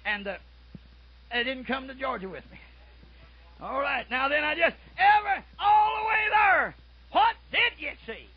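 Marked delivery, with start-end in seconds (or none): 3.6-8.3 high, loud, stretched preaching cry; preaching shout. Acted. Preacher pressing the congregation: what did you see, shouted.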